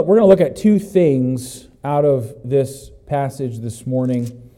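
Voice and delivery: ordinary talk, nothing marked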